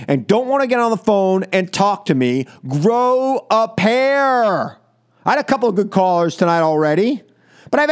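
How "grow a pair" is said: slow taunt. Real, not acted. Host taunts callers who hang up.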